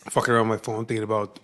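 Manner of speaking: numb mouth after a root canal. Real, not acted. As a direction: talk through a numb, half-frozen mouth. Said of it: "If I'm talking funny, it's because I just got a root canal done".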